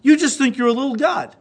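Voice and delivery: retold jeer with a touch of anger; mock angry put-down. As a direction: lightly act out someone mad and belittling. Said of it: "when they're mad and want to put me down".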